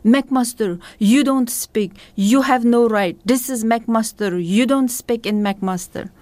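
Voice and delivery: mock the man shouting her down in broken English; retold angry yell. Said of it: "he yelled at me".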